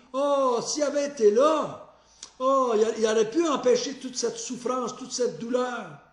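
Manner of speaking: gens sentimentaux imités, voix plus haute; imitation moqueuse. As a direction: singer la foule émue, sur un ton exagéré. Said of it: "interpréteraient ce, ces pleurs un peu comme eux autres". (le pasteur imite les gens d'une voix faussement attendrie)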